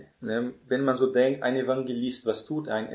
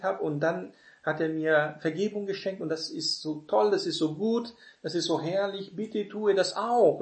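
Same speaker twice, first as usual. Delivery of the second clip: joyful invitation; 5 semitones higher than usual. Shown as a demonstration. Preacher inviting people to faith, joyful and gentle. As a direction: invite them gently, delighted by the good news. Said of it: "Zu sagen".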